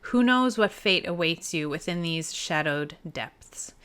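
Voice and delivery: game narrator setting the scene; game master's read-aloud; story narration. A narrator's reading. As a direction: read the adventure text out with purpose. Reads the game text aloud.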